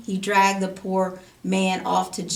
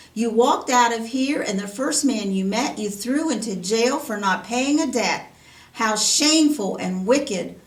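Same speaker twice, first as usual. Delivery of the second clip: angry scolding; 2 semitones higher, 5 dB louder than usual. Acted. Angry king scolds servant.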